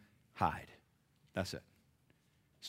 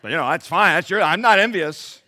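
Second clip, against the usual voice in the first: loud, high, climbing protest; mock defensive denial; 7 semitones higher, 13 dB louder than usual. Envious churchgoer denying envy, loud mock defensiveness. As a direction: overdo the insistence that all is fine.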